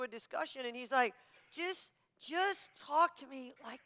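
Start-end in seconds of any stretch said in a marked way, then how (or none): 1.5-3.8 mock soft husband voice. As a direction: imitate him going softer and softer until only breath is left. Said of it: "he gets quieter".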